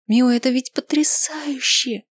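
a high, thrilled whisper; shouting in a whisper. A narrator's reading. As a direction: yell it without voice. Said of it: "кричит она шёпотом".

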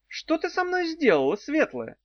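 high, startled demon cry; shouted. A narrator's reading. Worm-demon crying out to Daf. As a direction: demand an answer in alarm. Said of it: "крикнул он Дав".

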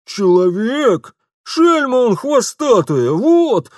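high, loud outraged shopkeeper; indignant shopkeeper. Acted. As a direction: spit out the insult. Shopkeeper rages at thief. (лавочник негодует)

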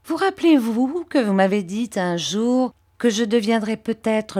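oily, humble flattery, pitched a little up; Uriah Heep. Acted. Uriah fawning over Mr Copperfield, lightly voiced servile tone.

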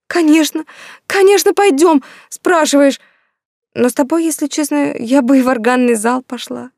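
bubbling over, can't say yes fast enough; overjoyed. Acted. Yulka accepts Anvar's invitation, overjoyed.

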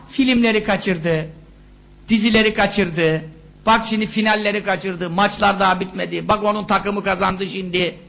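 low, droning mock mourning; mock lament. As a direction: imitate a parent bemoaning trifles. Mocks a parent's trivial lament.

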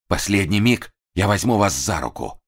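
ordinary delivery

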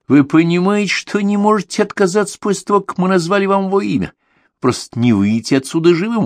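threatening. A narrator's reading. Young man threatens the killer.

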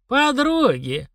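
high, slow sigh of regret. A narrator's reading. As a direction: sigh it out, remembering a friend. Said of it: "вздохнула травница".

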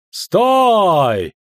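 loud, high commanding shout; long, ringing military order; shouted halt. A narrator's reading. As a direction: call riders to a halt. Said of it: "крикнул первый из конных".

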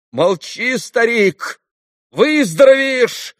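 high, loud, as if angered cry; angry shout. A narrator's reading. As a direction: shout to hold back tears. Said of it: "точно осердившись, крикнул вдруг Красоткин".

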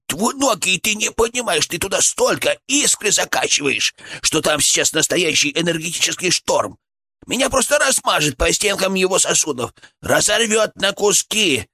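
high-pitched panicked protest; terrified chipmunk. A narrator's reading. Chipmunk fearing being torn to pieces, high and horrified. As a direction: plead in a high squeaky voice, alarmed. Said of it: "его голос дрожал от ужаса".

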